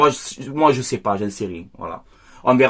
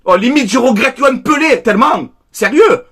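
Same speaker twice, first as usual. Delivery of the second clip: raised rant; 5 semitones higher than usual. Real, not acted. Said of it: "Désolé si je crie un peu".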